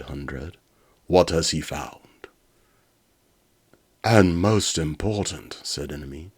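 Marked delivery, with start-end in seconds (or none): 1.1-2.0 evil robot voice. Acted. Evil robot Hundred speaks. 4.0-5.6 slow, loud scheming villain; drawn-out sinister villain. Acted. Evil robot Enemy speaks.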